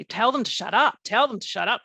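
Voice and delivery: retold loud, urgent plea. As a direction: raise your voice, reliving the freak-out. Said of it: "I was saying it really loudly".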